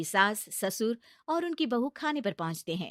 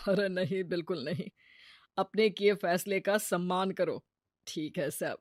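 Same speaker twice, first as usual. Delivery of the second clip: reassuring husband; 2 semitones lower than usual. Acted.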